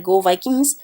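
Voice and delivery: Canadian-tinged Minnesota accent. Shown as a demonstration. Teacher imitates a Minnesota fan, Minnesota accent. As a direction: put on a Minnesotan's long rounded O. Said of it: "Canadian thing going on there".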